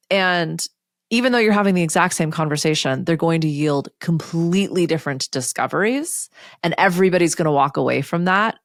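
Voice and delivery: ordinary talk, nothing marked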